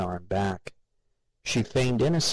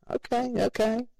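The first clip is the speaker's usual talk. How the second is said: muttered. A narrator's reading. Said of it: "Ted muttered".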